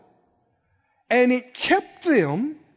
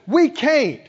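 harsh refusal; 4 dB louder than usual. Retold or imitated. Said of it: "They, they didn't say it in a sweet voice".

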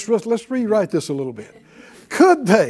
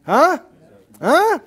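higher and louder, pushing the crowd to answer; rousing preaching; 6 semitones higher, 4 dB louder than usual. Acted. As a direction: fire up the congregation with each question. Preacher rousing congregation, pitch and volume up.

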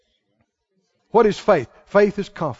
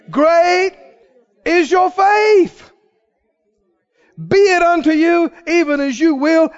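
praising proclamation; 8 semitones higher, slower than usual. Acted. Jesus praising the woman.

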